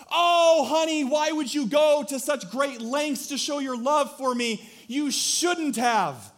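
high, loud falsetto wife, drawn-out ending; hammed-up swooning wife; mock gushing wife. Wife gushes over husband's anniversary roses, high falsetto. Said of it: "And she says".

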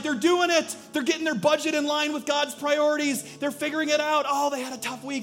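high, loud proud cheering; excited heavenly praise. Retold or imitated. Heaven cheering a struggling believer on, high proud praise. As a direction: brag proudly about your child. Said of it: "They're like".

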